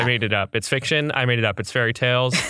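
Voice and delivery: Orson Welles impression. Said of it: "Orson Welles being like".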